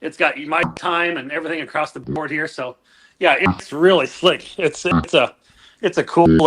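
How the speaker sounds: glitchy call audio with burping dropouts; burping audio glitch. Real, not acted. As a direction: voice breaking up in gurgles. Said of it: "it sounds like you're burping every other word".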